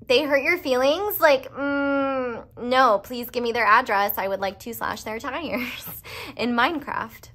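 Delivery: high, loud, fired-up defensiveness; playfully furious on a friend's behalf; mock protective outrage. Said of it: "and so I'm like".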